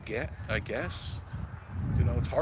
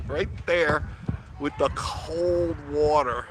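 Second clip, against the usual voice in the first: relished punchline; 5 semitones higher, slower than usual. Real, not acted. Relishing the shower story's punchline.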